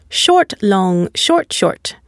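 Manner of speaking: stressed "long" as the second beat, every "short" brief; stress pattern demo. Shown as a demonstration. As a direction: draw out "long", clip each "short". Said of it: "only one long and stressed syllable".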